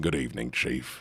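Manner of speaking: very low, calm, friendly rumbling bass. Voicing a werewolf coming in and greeting the chief, low rumbling bass. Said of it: "A low rumbling bass, surprisingly calm and friendly".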